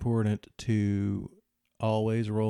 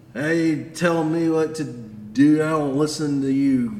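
put-on drunk, angry, higher and louder; 5 semitones higher, 7 dB louder than usual. Playing a drunk holding a rusty knife in your face: the speaker's angry drunk voice. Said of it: "The guy he's talking to is actually the angry drunk".

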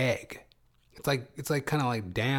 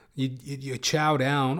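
ordinary talk

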